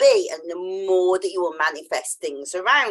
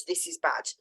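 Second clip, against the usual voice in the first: whispered bad; 5 semitones lower, 8 dB quieter than usual. Mock self-judging inner voice.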